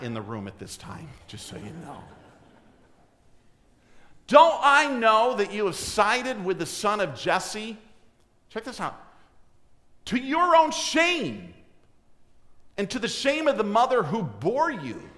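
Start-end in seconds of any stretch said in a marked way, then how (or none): 4.3-7.8 King Saul accusing his son, louder and higher; raised, indignant royal rebuke; angry king. Acted. Preacher voices furious King Saul. 10.1-15.1 a sharp high cry of scorn, slowing on the first words; outraged king shaming his son; angry king. Acted. Preacher voices furious King Saul.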